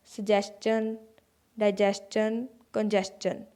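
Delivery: सजेशन, डाइजेशन, कंजेशन each said with a chun ending; teacher's demo of chun endings. Shown as a demonstration. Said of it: "टी आई ओ एन से पहले एस लगा है".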